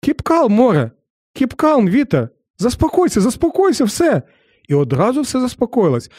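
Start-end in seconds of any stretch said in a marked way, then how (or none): 0.1-4.2 soothing command. Retold or imitated. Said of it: "Він стає і каже".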